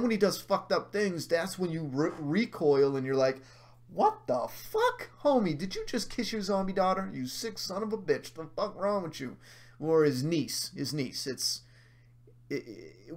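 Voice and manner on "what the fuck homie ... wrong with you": incredulous, stretched-out outburst; appalled disbelief. Acted. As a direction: recoil in mock horror and tell him off. Recoiling reaction to Governor's act.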